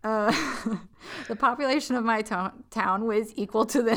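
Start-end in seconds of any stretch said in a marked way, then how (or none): 1.3-3.9 lightly put-on Minnesota accent. Reading the listener's letter, slipping into a mild Minnesota accent. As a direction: let a Minnesota accent slip in. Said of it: "I'm just slipping into it now".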